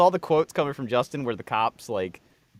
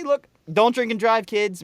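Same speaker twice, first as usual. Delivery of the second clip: public service announcement; 8 semitones higher, 6 dB louder than usual. Pretend. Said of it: "just say".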